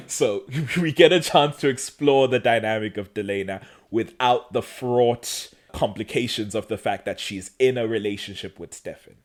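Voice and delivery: words garbled with tongue held; holding tongue with fingers. Real, not acted. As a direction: speak while pinching your tongue. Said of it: "I have to say this while holding my tongue".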